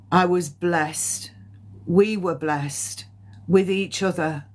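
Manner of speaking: slow, solemn blessing with long pauses; measured, heartfelt medium's relay; channelled spirit message. Acted. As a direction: deliver a loving message slowly, phrase by phrase.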